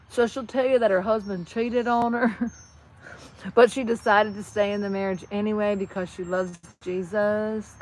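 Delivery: imitated Southern gossip in Tennessee accent. Shown as a demonstration. Passing on Betty Lee's marriage troubles, mock Tennessee accent. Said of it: "that is Tennessee".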